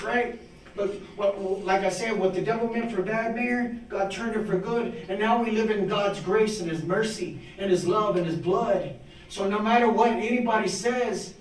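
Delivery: heartfelt preaching, pitch lifted. Real, not acted. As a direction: preach grace in rhythmic, driving phrases. Preaches grace to the officials.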